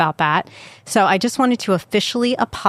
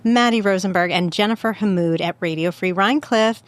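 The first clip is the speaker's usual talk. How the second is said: radio host intro. Acted. Host welcoming listeners and introducing the guest, measured radio announcer read. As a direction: open the show like a polished radio host.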